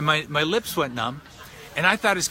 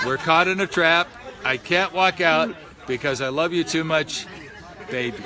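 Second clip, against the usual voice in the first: deadpan reading; slower than usual. Retold or imitated. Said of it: "it goes like this".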